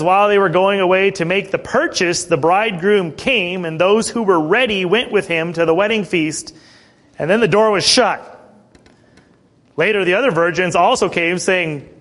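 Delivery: emphatic storytelling from the verse; scripture reading. Acted. Preacher reads the virgins' parable to church, emphatic scripture reading. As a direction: read the parable out to the congregation.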